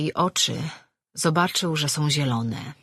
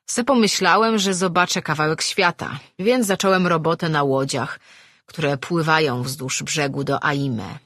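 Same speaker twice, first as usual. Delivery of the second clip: put-on louder old sailor telling his tale; old grump reminiscing; 4 dB louder than usual. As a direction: spin a yarn over a drink, forcefully. Old man tells his sea story.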